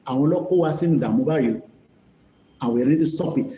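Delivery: ordinary talk, nothing marked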